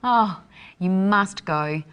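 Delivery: slow, drawn-out "Oh" and a stretched "must"; enthusiastic recommendation. Shown as a demonstration. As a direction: urge a friend not to miss it. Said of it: "it would be really great for you to go".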